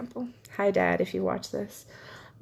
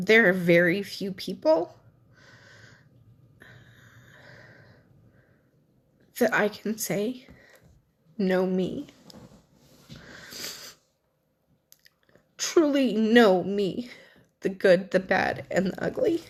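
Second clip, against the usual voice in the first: crying, tearful voice. Speaker talking about friends and family, crying while speaking. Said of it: "Here I am crying again".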